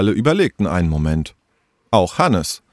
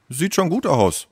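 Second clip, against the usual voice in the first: higher-pitched approving remark; appreciative; 7 semitones higher than usual. Acted. Ben looks at his friends' jungle painting, appreciative. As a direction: say it as mild, appreciative praise. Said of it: "sagte Ben anerkennend".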